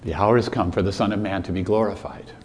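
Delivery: low, soft, quick solemn reply; solemn quiet. Retold or imitated. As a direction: say it quietly, as Jesus. Jesus answers again, solemn.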